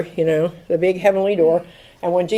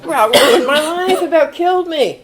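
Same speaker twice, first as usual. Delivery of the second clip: wry laugh; 9 semitones higher, 5 dB louder than usual. Real, not acted. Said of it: "laughing at ruin".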